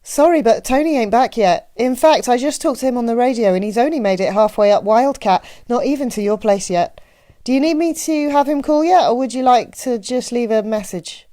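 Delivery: chatty Midwestern small-town clerk; Annie. A narrator's reading. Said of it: "her Midwestern accent left no doubt".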